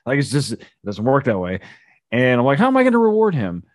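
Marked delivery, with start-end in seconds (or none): 2.6-3.6 incredulous rant. Retold or imitated. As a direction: rattle off the absurd question. Incredulous rant in retold argument.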